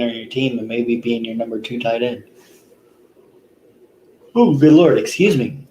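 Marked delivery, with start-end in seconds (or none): 4.3-5.7 yawning. Real, not acted. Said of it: "I don't know why I'm yawning so much".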